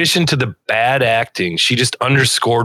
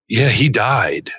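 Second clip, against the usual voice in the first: slow, lifeless line read; bad acting; 3 semitones lower, slower than usual. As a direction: read the line like a wooden actor. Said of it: "she delivered it wrong".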